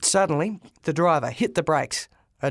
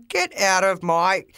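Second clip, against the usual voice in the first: shout; 3 semitones higher, 4 dB louder, slower than usual. Acted. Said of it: "shouted the taxi driver".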